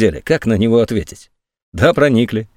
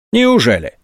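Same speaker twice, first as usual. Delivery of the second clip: a sneering, higher "Неужели?"; open mockery; 4 semitones higher than usual. A narrator's reading. General on the phone mocks the colonel, scornful. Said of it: "откровенное издевательство".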